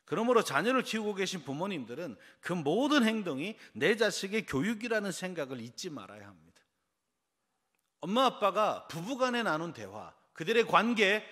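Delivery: loud, high sermon delivery; emphatic preaching. Real, not acted. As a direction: drive the point home to the congregation. Preaches forcefully to congregation.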